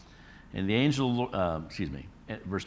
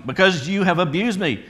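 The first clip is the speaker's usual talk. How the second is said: loud, higher enraged threat that slows at the end; loud acted rage at the donkey; furious Balaam; 5 semitones higher, 8 dB louder than usual. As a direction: bellow it like a man who wants a sword. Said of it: "And Balaam said to the donkey".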